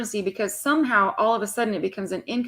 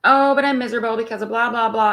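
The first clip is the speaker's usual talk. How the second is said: lightly whiny mimicry, a bit louder; mock whining client; 4 dB louder than usual. Mocking clients who return with the same complaint, whiny. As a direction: parody the complaint with a sigh. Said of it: "telling me the same damn thing".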